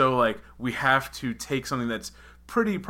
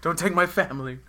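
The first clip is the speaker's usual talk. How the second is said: dramatic princess; 9 semitones higher, 5 dB louder than usual. Pretend. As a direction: play the tragic princess. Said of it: "your Anastasia role".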